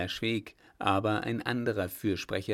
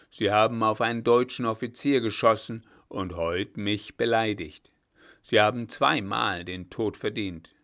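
put-on loud stern old judge; stern threat; 5 dB louder than usual. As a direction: lay down a death sentence loudly. Blücher pronounces judgment.

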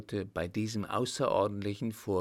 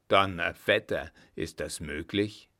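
a louder, lower burst of surprise; astonished oath; 3 semitones lower, 5 dB louder than usual. A narrator's reading. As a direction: blurt the oath out in amazement. Coachman's shocked outburst.

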